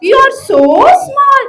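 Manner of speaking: mocking lion. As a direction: tease the tiny mouse. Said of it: "The lion laughed".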